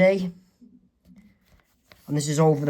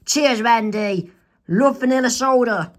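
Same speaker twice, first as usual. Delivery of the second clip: higher, bright-toned toast; cheerful toast; 5 semitones higher, 3 dB louder than usual. Acted. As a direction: clink cups happily. Toast between friends.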